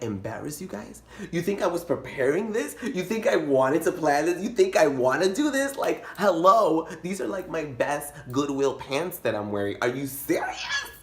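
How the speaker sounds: rising mock outrage, high and pushy; indignant retort. Kid snapping back at the staring family, mock outrage. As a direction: act insulted, building to hello.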